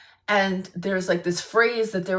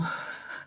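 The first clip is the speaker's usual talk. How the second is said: quiet breathy chuckle; amused laugh; 13 dB quieter than usual. Real, not acted. Storyteller amused at being named honorary Jew, soft laugh. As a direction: chuckle softly at the punchline.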